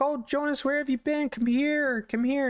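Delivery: very high, fretful wife voice; mock-worried high-pitched calling; concerned. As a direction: coax a lost pet in falsetto. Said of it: "And she's all concerned".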